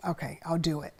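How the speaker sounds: breathy unvoiced whisper, giving in; whispered reluctant yes. Mom retelling caving to pressure, whispered. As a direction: whisper it like you've been pressured.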